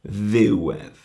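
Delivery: "ddiwedd" with the accent on "ddiw"; stress on first syllable. Shown as a demonstration. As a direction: lean on "ddiw" in "ddiwedd", let "edd" drop away. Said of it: "The accent is on the ddiw".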